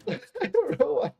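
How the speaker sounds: high, loud words stretched by a yawn; real yawning fit. Real, not acted. Streamer baffled by a sudden yawn, yawning as they talk. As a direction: talk through a sudden yawn, half laughing. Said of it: "I'm yawning all of a sudden".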